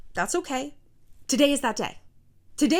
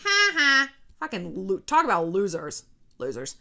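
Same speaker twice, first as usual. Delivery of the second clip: mocking haters; 4 semitones lower than usual. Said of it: "the people who hate me are gonna be like".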